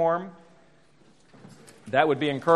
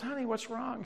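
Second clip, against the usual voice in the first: retold concern; 8 semitones higher, 10 dB quieter than usual. Husband finds wife crying.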